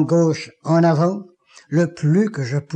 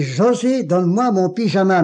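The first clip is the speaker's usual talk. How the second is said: higher and firmer call; stronger voice; 3 semitones higher than usual. Retold or imitated. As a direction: call out with new strength. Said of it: "mais d'une voix plus forte".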